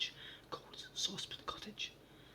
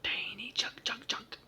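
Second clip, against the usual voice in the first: inquiring; 2 semitones higher, 7 dB louder, slower than usual. Acted. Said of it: "in an inquiring voice".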